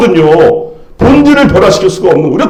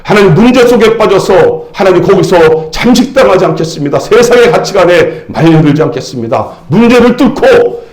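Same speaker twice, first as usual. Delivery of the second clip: earnest pastor praying aloud; measured prayer gathering force; congregational prayer. Real, not acted. Leads closing prayer.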